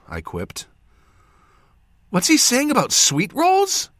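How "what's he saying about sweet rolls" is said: high, loud, puzzled female voice; confused, concerned. A narrator's reading. Jas puzzled by the injured man's words, confused and concerned. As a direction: ask in worried bafflement, pitched high. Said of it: "said with confusion and concern".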